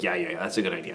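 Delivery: calm, resigned yes; king calming at his wife's advice, softly; settling down. Retold or imitated. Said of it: "He's like".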